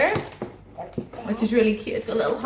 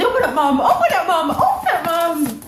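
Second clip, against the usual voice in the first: high squeaky pretend dog voice, louder; voicing the dog; 8 semitones higher, 5 dB louder than usual. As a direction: speak for the puppy, begging in a high voice.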